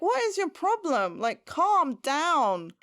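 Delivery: high, exasperated mock outburst. Viewer reacting to her attack on Bucky, exasperated. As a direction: plead in mock exasperation, stretching out the calm-down.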